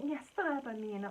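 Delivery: high, slow mock whimper; tearful little-kid whine, hammed up; childish crying. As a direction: imitate yourself whining in fear. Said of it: "I was so childish about the whole thing".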